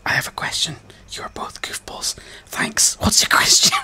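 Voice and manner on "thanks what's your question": loud. Real, not acted. Shouting back at chat.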